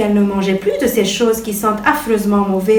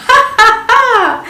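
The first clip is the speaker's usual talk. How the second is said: slow, loud, high ha ha ha; mocking laugh; 12 semitones higher, 5 dB louder, slower than usual. A narrator's reading. The city fly laughs at Patouche, loud and high. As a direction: burst out laughing at her. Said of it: "elle éclata de rire".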